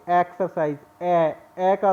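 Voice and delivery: एक्सरसाइज starting on a clear ए; pronouncing exercise. Shown as a demonstration. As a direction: stress the opening ए of एक्सरसाइज. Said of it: "जब read करेंगे तो कैसे बोलेंगे".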